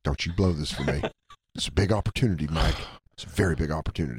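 low, ominous mock caution; imitated stern warning. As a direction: press it on them gravely, in jest.

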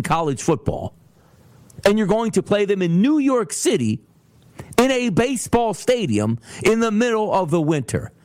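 lightly voiced upbeat coach; mock coach. Imitating a coach announcing the bowl trip, mild upbeat voice. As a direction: sell a bad trip with fake cheer. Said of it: "Who are we playing?".

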